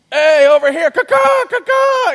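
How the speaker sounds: high desperate bird screech; shrill screeching bird woman. Retold or imitated. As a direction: screech like a frantic crow. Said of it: "more desperate and embarrassed".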